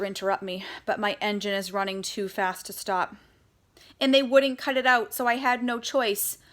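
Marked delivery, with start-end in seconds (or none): 4.0-6.4 loud, higher breathless pleading; little girl blurting out her defense; urgent protest. Acted. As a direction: rush to justify herself to Daddy. Girl protesting fast to Daddy.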